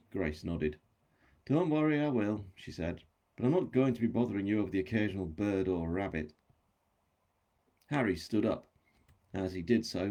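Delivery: measured audiobook reading with livelier dialogue; story narration. A narrator's reading. Author reads chapter extract to audience, story narration. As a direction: read a novel aloud, voicing the dialogue.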